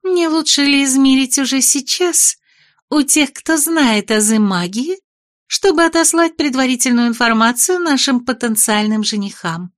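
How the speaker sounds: a hint of a pushy young lady; high-voiced young lady. Malisa presses the lord.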